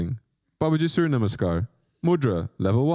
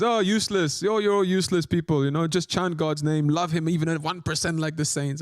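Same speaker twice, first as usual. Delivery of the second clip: mock-dismissive teacher, pitched higher; imitating Guruji; 4 semitones higher than usual. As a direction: tease the guru's weary scolding. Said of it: "he just sits there and says".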